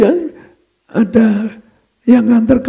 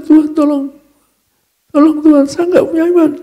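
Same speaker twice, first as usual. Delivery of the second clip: higher-pitched plea to God; desperate prayer; 5 semitones higher, faster than usual. Retold or imitated. Reluctant pastor asking God for help without faith, desperate prayer. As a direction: pray helplessly, voice lifted. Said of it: "terpaksa saya doakan".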